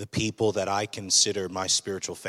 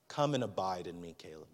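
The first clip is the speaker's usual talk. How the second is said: gentle voice of God; 3 semitones lower, 5 dB quieter than usual. Retold or imitated. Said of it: "he's just going".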